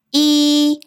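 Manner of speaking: 이 long, high and level; first tone. Shown as a demonstration. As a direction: stretch 이 on a steady high note. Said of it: "일성입니다".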